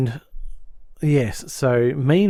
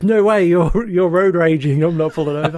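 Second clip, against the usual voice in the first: high, louder put-on Chinese accent; mock Chinese accent; 4 semitones higher, 3 dB louder than usual. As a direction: refuse to pull over in a mocking Chinese accent. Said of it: "the Chinese laundry dude goes".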